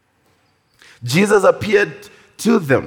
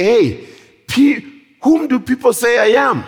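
lightly acted, higher-pitched probing question; questioning teacher; 6 semitones higher than usual. Jesus asking who people say he is, lightly voiced questioning. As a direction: put the question out to the whole group.

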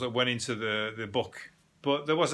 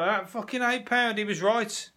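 mock disappointment; 8 semitones higher than usual. Misreads sale price, deflated.

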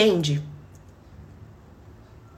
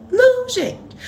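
high, louder exasperated denial; 14 semitones higher, 4 dB louder, much slower than usual. Real, not acted. Rejecting viewers' idea she is two people, exasperated.

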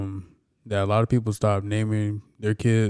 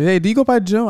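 white guy voice; 11 semitones higher, 4 dB louder than usual. Retold or imitated. Quoting white people saying Jim.

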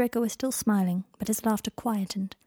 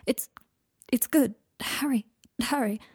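breathless; 2 semitones higher than usual. A narrator's reading. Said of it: "a little breathless".

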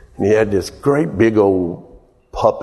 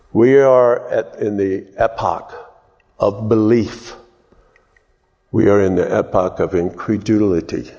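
rhetorical recitation. Acted. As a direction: recite it like a proclamation.

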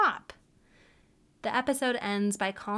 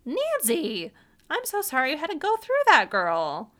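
much higher, louder, fast sassy friend voice; high sassy girlfriend sympathy; 7 semitones higher, 8 dB louder than usual. Pretend. Vlogger consoling Nancy like a sassy girlfriend, high and loud. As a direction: gush like a sassy best friend.

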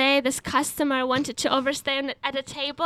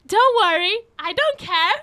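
cheery, higher-pitched brush-off; smiling reassurance; 5 semitones higher than usual. Retold or imitated. Waitress answering a customer she misheard, cheerfully oblivious. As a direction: say it through a bright smile. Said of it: "with a smile on my face".

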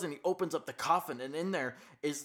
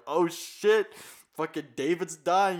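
mock alarm; 2 semitones higher, 5 dB louder than usual. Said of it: "Daniel's like".

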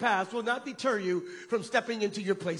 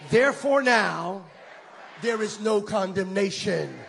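bold declaration; 6 dB louder than usual. Shown as a demonstration. Preacher leading the crowd, loud declaration. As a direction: say it to anger the enemy. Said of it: "say it and get the enemy angry".

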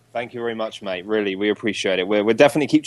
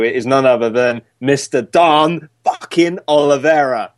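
big announcement; 3 semitones higher, 4 dB louder than usual. Acted. Announcing guest with fanfare.

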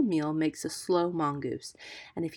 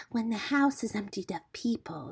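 conspiratorial female snake voice; whispering cobra; 4 semitones higher than usual. A narrator's reading. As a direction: plot secretly as a scheming cobra. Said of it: "whispering together outside in the moonlight".

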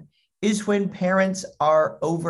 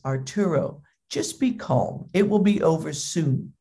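measured, lightly acted reassurance; patient dad. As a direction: imitate a father keeping his cool. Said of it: "how patient you were with him".

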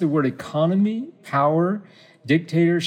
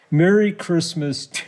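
real giggles overtaking the words; breaking into laughter; 4 semitones higher than usual. Real, not acted. Host trying to read out a Christmas message, cracking up. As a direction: start reading, then crack up. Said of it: "I don't know why I'm laughing".

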